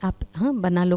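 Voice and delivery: a mild, kind request, no pressure; lovingly. Retold or imitated. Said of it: "मैं प्यार से बोलकर चली गई". (प्यार से, हल्के स्वर में)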